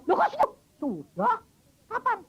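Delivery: amazed friend. Retold or imitated. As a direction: act stunned that the child is well. Friend amazed the child is healed.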